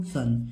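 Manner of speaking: सन as one short syllable, silent T; TION read as "sun". Shown as a demonstration. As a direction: model सन with an S sound, no T. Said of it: "direct इसको क्या पढ़ेंगे?".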